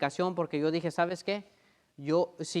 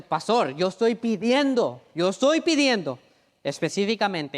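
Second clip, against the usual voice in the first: protesting congregant; 4 semitones higher, 5 dB louder than usual. Retold or imitated. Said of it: "Ahora uno dice".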